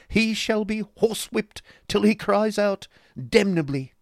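high, loud, gushing fop; affected husband. Acted. Husband threatens footman theatrically.

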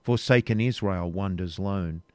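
measured, reverent verse reading; solemn hymn recital. A narrator's reading. Reader reciting Rebecca's evening hymn, solemn and measured.

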